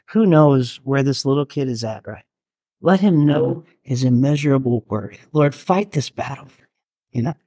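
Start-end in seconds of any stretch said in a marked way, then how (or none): 2.8-7.3 holding back tears while praying; teary. Real, not acted. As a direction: voice choking up with tears. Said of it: "I'm getting teary now".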